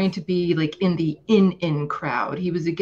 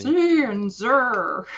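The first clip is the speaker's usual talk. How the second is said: mock mispronunciation; 6 semitones higher, 4 dB louder, much slower than usual. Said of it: "It's so funny".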